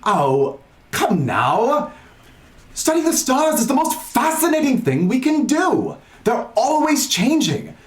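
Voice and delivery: lightly Australian-tinged eager scholar; a game master's shaky Australian accent for a curious tiefling; Zinni, attempted Australian. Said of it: "and he says".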